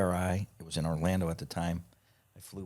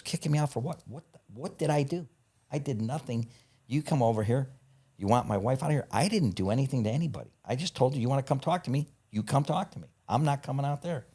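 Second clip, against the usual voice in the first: higher, indignant Bob voice pleading innocence; indignant protest; 6 semitones higher than usual. Retold or imitated. Bob protests to hotel staff that he did nothing, higher and indignant. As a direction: play the wronged guest, raising the pitch.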